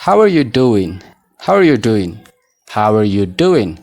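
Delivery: "How are you doing" as "hawer-you-doowin"; model pronunciation. Shown as a demonstration. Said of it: "Mee na waliin jedhaa". ("How are you doing" gaa malee)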